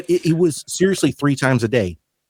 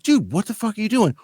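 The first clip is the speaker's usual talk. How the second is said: mock exasperated yell; 10 semitones higher than usual. Confronting coworker about the junkie.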